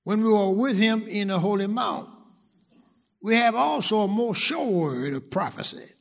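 forceful pulpit reading, pitched a little up; scripture proclamation. Acted. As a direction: proclaim the verse to the congregation.

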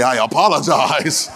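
slow, drawn-out mock apology. Preacher joking with congregation about avoiding sorry, mock apology. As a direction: stretch out the apology for comic effect.

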